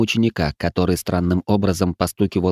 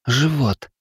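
moaning; 6 semitones higher than usual. Acted. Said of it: "со стоном".

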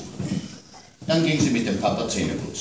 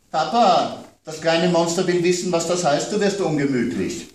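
put-on higher, childlike complaint; child's voice worried about monsters at bedtime; little girl; 9 semitones higher, 4 dB louder than usual. A narrator's reading. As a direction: play the small daughter scared of monsters. Child Amanda teasing, giggling.

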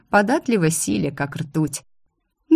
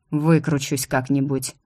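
gloomy; 3 semitones lower than usual. Acted. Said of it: "мрачно возразил Гард".

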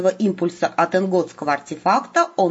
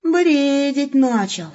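worried; 7 semitones higher, much slower than usual. A narrator's reading. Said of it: "озабоченно отозвался Волк".

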